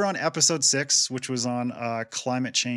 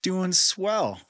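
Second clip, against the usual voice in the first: stuffy, blocked-nose voice; talking through a head cold; nasal voice. Real, not acted. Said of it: "Got a little bit of a nasally voice today".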